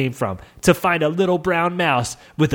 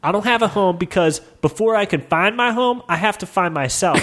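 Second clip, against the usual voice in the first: fast, higher whiny goblin; 4 semitones higher than usual. Acted. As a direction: plead like a lost little goblin. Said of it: "goblin speaking".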